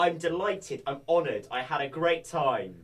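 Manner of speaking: lightly mocking corporate gush; mock LinkedIn speak. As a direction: gush like a LinkedIn post, tongue in cheek. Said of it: "speak a different form of English".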